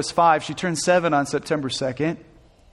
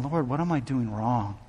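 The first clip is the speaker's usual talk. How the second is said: a desperate father's retold prayer, raised and strained; anguished prayer; 4 semitones higher than usual. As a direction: cry out why to the Lord in retold anguish. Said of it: "crying out to God".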